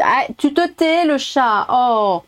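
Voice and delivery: mock high scolding.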